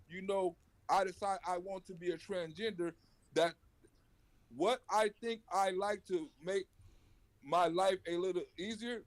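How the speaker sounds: slow, halting read from a transcript; reading aloud. Real, not acted. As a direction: read it out slowly, word by word.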